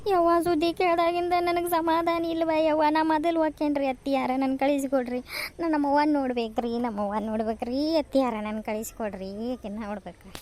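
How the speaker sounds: loud, wailing plea, easing toward the end; insistent pleading. Acted. Daughter-in-law begs to see her hurt mother, pleading insistently. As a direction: beg stubbornly like a small child. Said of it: "ಸಣ್ಣ ಹುಡ್ರಂಗ ಹಠ ಮಾಡಾಕತ್ತಿಯಲ್ಲ".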